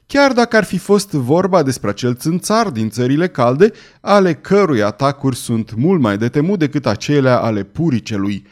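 piqued. Acted. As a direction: set him straight with wounded pride. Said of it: "răspunse înțepat vărul Benedict".

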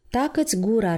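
cutting, curt rebuke; sharp tone. Acted. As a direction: shut him up sharply. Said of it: "pe un ton tăios". (ton tăios, poruncitor)

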